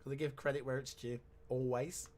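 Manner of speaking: dry mock praise; sarcastic. Real, not acted. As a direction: give credit with open sarcasm. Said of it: "Yeah, that was sarcasm".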